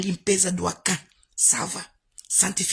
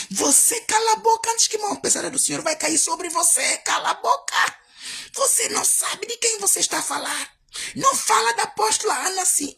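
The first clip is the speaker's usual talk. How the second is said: high, loud furious scolding; outraged church elder shouting down a critic; 10 semitones higher, 5 dB louder than usual. Retold or imitated. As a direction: yell at him to shut up. Cristina angrily defends the apostle.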